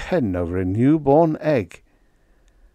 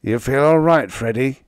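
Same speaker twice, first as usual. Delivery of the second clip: concerned and caring, louder; solicitous; 4 semitones higher, 4 dB louder than usual. A narrator's reading. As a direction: ask with anxious care. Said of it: "he inquired solicitously".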